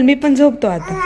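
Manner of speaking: put-on a light whiny speaking-for-baby voice; half-whimper as the little one saying he's sleepy; mother speaks for the drowsy baby in a mild whiny voice; voicing the sleepy baby. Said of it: "तो म्हणाल".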